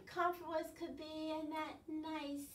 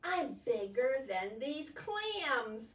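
proud squid; much slower than usual. Acted. Squid boasts in story.

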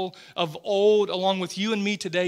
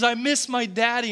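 higher, a light imitation of a tearful little girl; little daughter crying; 4 semitones higher, 3 dB louder than usual. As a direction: echo his small daughter's tearful plea. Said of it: "she just kept saying".

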